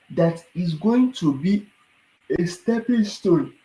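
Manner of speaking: words stretched by a yawn. Real, not acted. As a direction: talk through a yawn. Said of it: "I'm just yawning".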